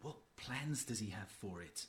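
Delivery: low, hushed private word; softly voiced aside; conspiratorial undertone. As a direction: confer quietly so the others can't hear. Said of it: "what's all this whispering?".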